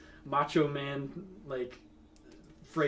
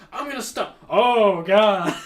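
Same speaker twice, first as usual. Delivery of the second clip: higher, mock earnest teacher stepping in; imitating the teacher; 6 semitones higher, 13 dB louder, slower than usual. A teacher running up to the fighting kids, lightly mocked. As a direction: play the teacher rushing to break it up. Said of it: "a teacher ran up and was like".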